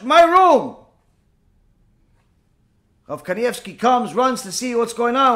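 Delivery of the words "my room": loud high insistence; possessive yelling. Retold or imitated. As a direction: claim the room at full voice. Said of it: "She almost took ownership".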